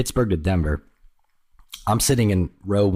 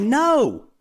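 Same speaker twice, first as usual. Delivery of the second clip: squeaky mock denial. His panicked denial, retold.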